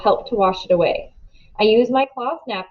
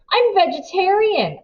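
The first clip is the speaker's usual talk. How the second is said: cry out; 10 semitones higher than usual. A narrator's reading. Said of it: "I cry".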